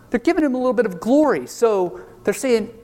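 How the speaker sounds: ordinary delivery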